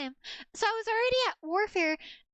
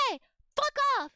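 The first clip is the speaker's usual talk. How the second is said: retold yell; 5 semitones higher, faster than usual. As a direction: imitate telling someone off across a parking lot. Yelling at honking driver, retold.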